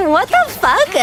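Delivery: incredulous laugh breaking into a high, drawn-out question; laughing disbelief. Real, not acted. Reacting to absurd savings account request.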